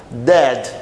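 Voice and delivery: "dead" with a hard D, not TH; plain D sound. Shown as a demonstration. Teacher contrasts it with that, "dead" with hard D. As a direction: start "dead" on a firm English D. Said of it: "Não é o som do D".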